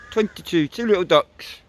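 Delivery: bingo caller. Acted. Bingo call for twenty-two.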